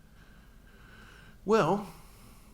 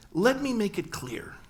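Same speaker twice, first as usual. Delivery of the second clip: slow, higher and louder warning; stern father; 7 semitones higher, 4 dB louder, slower than usual. Retold or imitated. Navy captain father warning son, slow and stern. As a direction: lay down the law, slow. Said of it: "this is so not like my father".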